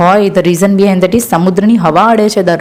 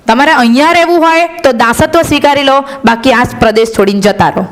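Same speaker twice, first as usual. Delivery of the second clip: conqueror's ultimatum; 5 semitones higher than usual. Retold or imitated. Aryans ordering the conquered people.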